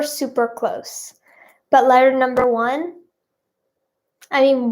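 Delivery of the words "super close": slow, soft unvoiced whisper. Real, not acted. Vlogger hinting to viewers that they are nearly there, whispered. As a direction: breathe the words out slowly, no voice. Whispered repeat of guess hint.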